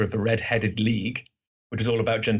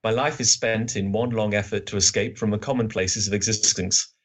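a mildly theatrical literary reading, a touch world-weary; lightly voiced bored detective, opening on a stronger sigh of lament; Sherlock Holmes. Reading Holmes's lament aloud to co-hosts, mildly world-weary. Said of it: "Holmes just goes".

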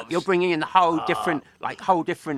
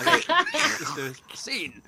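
creepy voice; 8 semitones higher than usual. Acted. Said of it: "that's really creepy".

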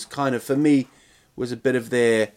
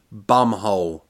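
whispered; 5 semitones lower than usual. Real, not acted. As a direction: whisper the rude word. Embarrassing word whispered.

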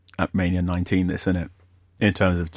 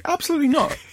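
emphatic refusal; faster than usual. Real, not acted. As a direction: flatly refuse it, voice shooting up. Refusing snake near him.

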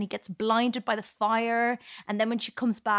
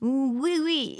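put-on French accent; 3 semitones higher than usual. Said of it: "really bad French accent".

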